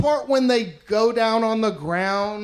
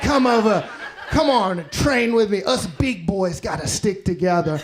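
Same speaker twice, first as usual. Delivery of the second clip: lightly imitated Australian accent. Australian dude takes the new guy under his wing, mock Australian accent. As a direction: put on a casual Aussie accent. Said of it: "He was Australian. That's what they sound like".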